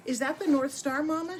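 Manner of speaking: a hint of a wide-eyed young reindeer; young doe asking. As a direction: ask like a hopeful little fawn. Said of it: "she asked".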